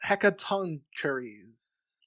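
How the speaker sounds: Hecatoncheires as "heck-a-TONK-uh-reez"; looked-up pronunciation. Shown as a demonstration. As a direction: slowly sound out Hecatoncheires with a short "kuh-reez" ending. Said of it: "according to How Jay Say, it's pronounced".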